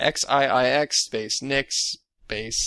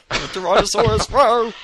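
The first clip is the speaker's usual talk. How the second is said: dinosaur voice; 9 semitones higher, 3 dB louder than usual. Pretend. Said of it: "Tyrannosaurus Rex breaks through the wall".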